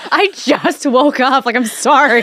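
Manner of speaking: mock protest. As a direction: whine it playfully with a laugh. Acts morning protest to friend.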